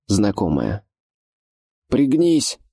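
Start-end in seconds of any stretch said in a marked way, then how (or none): 1.9-2.6 резкий крик, выше обычного; выкрикни предупреждение. A narrator's reading. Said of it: "крикнул Ош". (Ош кричит Зоре пригнуться, резко и высоко)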